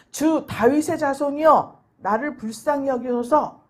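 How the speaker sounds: slow, loud pleading cry; a desperate mother's loud, drawn-out plea. Retold or imitated. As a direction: cry out to him, begging for mercy. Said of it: "이렇게 소리를 질렀습니다".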